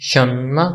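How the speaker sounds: शन्मा drawn out, ending on a rise; pronunciation demo. Shown as a demonstration. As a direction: model शन्मा slowly for learners. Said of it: "यहाँ पे इसकी pronunciation है".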